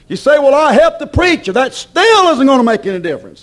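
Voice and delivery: high-pitched pulpit rebuttal; emphatic preaching. Acted. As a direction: throw the excuse back at the congregation. Preacher rebuts an imagined objection.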